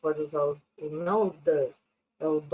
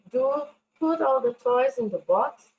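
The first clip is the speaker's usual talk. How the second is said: firm, a bit louder and higher; firm command to tidy up; firm order; 4 semitones higher, 4 dB louder than usual. Shown as a demonstration. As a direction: say it like a real order, no room to argue. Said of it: "firme, mais rígida".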